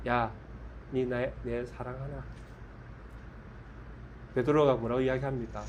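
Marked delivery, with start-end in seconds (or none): 0.1-2.2 Gyeongsang dialect. Acted. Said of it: "딱 쳐다보시면서".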